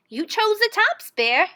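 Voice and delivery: high, loud wake-up call; triumphant rabbit calling out the harvest split; gleeful Hare. A narrator's reading. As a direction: rouse the bear and spring the trick. Hare's voice in story.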